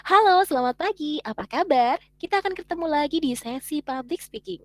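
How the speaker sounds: friendly greeting with an audible smile, lifted pitch; smiling voice. Shown as a demonstration. Teacher demonstrates to students speaking with a smile, smiling voice. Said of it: "itulah smiling voice".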